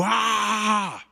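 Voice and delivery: long, high mock roar; held imitation yell; shaming shout. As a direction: draw out a high "aah". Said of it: "that shame is shouting at you".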